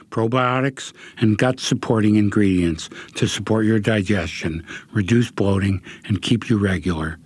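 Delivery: steady sponsor read. Acted. Host reads sponsor copy for listeners, ad read.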